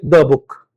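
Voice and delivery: "द" said short as "thuh" before book. Shown as a demonstration. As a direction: keep "द" short before a consonant. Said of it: "दी book नहीं बोलेंगे".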